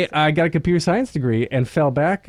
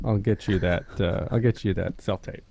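mock aloof; 8 semitones lower, 6 dB quieter than usual. Mock actor promising audition tape.

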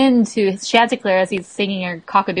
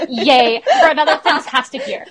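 mock half-hearted cheer, breaking into laughter; Goofy movie character; 5 semitones higher than usual. Teasing the co-host's yay, mock unenthusiastic. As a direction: imitate a movie's lacklustre celebration. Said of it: "That sounded like in a Goofy movie".

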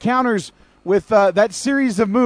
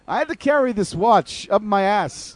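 slow, deliberate Walken-style drawl; halting, oddly paced movie monologue; Christopher Walken impression; 4 dB quieter, slower than usual. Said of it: "it's like Christopher Walken".

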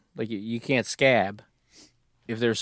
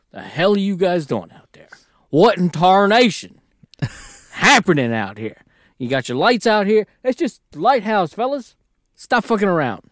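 put-on old prospector; 7 semitones higher, 5 dB louder than usual. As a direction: holler like an old-timer who has seen it all. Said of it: "He's like".

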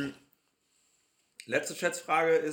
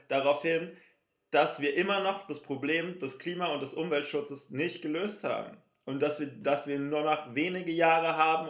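solemn announcement; 2 semitones higher than usual. Acted. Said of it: "Jetzt ist die ernste Minute".

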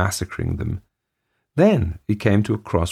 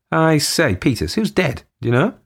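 calling out; 9 semitones higher than usual. Acted. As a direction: call out to Peters urgently. Calls to his number two.

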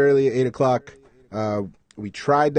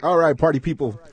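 loud DJ hype call; 4 semitones higher, 5 dB louder than usual. Acted. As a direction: greet the party crowd like a DJ. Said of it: "Should I do the D J voice".

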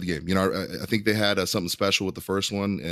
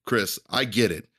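wrestling promo. Pretend. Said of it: "Cut a promo on Chris Pereira right now".

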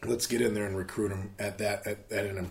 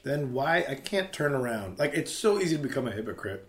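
chewing noisily; 3 semitones higher than usual. Real, not acted. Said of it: "I'm sorry, I'm eating more candles here".

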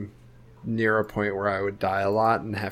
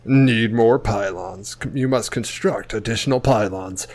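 game announcer voice; 3 dB louder than usual. Retold or imitated. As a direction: announce the warning in measured tones. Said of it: "StarCraft, the original StarCraft".

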